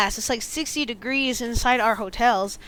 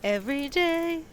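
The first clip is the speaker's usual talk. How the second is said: laughing; 4 semitones higher, 5 dB louder, much slower than usual. Real, not acted. Joking, laughing, stretched out.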